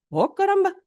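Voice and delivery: surprised gasp. Retold or imitated. Learning father had no schooling.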